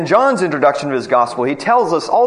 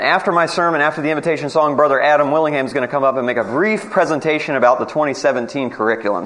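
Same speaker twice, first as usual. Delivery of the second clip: fast talking; faster than usual. Real, not acted. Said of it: "if I sound a little bit like an auctioneer".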